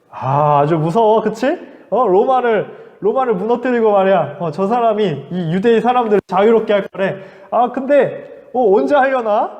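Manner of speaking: mock fear, dripping sarcasm; a touch of sarcastic soldier jeering; sarcastic mockery. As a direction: pretend to be scared, sneering. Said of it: "이 사람들을 비웃기 시작했어요".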